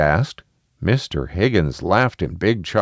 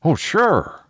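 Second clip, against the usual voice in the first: put-on lifted, cheery old neighbour; cheerful; 10 semitones higher than usual. A narrator's reading. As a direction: answer brightly and easily. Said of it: "Mister Higgins said cheerfully".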